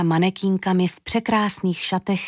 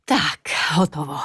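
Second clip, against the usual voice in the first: lower, exhaled relief; relieved sigh; 4 semitones lower than usual. A narrator's reading. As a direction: breathe out that it's done. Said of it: "oddychla si paní Hana".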